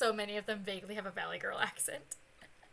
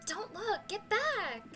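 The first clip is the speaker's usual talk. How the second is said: urgent shouting; 8 semitones higher, slower than usual. Acted.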